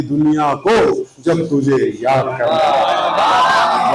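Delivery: measured Urdu verse with drawn-out line endings; poetry recitation. Acted. Poet reciting a ghazal to a gathering, mushaira recitation. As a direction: recite each line slowly, lifting the repeats. Recites his couplets to audience.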